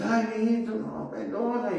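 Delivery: retold crying mother. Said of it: "mi mamá sale llorando".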